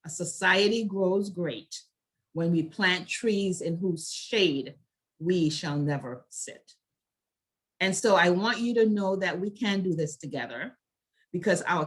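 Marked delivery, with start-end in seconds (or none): 0.0-6.7 slow, weighted repeat of the proverb; deliberate repetition. Real, not acted. Speaker closes by repeating a proverb to ponder, slow and deliberate. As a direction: let each phrase sink in, slowly.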